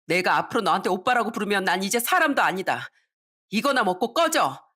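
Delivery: indignant sister cutting ties; angry outburst. Acted. Daughter disowns her brother at the table, angry outburst. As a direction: tell him off, pitch lifting on the dismissal.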